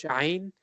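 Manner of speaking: "Ayn" with a throaty onset; Arabic ayn. Shown as a demonstration. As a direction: demonstrate the Arabic letter "Ayn". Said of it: "do the Ayn from the Arabic language".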